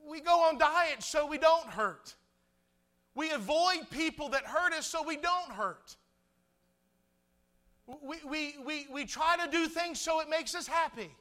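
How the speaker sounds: high, loud preacher's delivery; preaching. Real, not acted. Preaches at full force.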